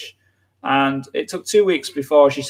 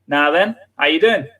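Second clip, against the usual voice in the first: granddad's Yorkshire greeting. Retold or imitated. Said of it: "he would greet him with".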